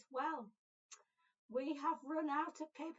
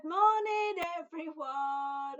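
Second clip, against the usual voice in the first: cheery greeting; 2 semitones higher, 9 dB louder, much slower than usual. Acted. Greeting children on video.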